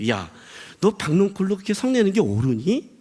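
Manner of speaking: mildly chiding, tender question; gentle. Acted. God questions Jonah about the plant, gentle. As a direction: ask it kindly, without accusation. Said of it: "이것도 부드럽게 말하는 거죠".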